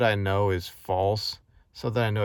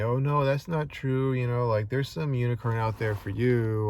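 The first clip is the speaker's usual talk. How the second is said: higher-pitched, insistent naysayer; mock reassurance; 4 semitones higher, 3 dB louder than usual. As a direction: imitate someone earnestly contradicting you. Imitating people pushing false ideals.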